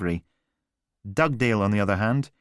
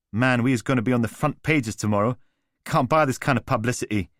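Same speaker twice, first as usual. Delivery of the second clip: lightly voiced swaggering London geezer; breezy street-slang charm; cocky London lad; 4 semitones higher than usual. Alistair winding up his stunned brother, as a lightly voiced cocky London lad.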